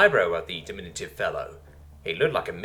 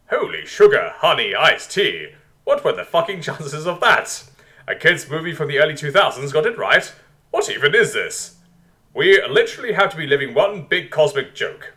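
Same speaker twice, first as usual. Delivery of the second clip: loud, raised, incredulous outburst; stunned disbelief; 5 semitones higher, 7 dB louder than usual. Acted. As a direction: react as if reality has turned absurd. Stunned inner reaction to lemur king.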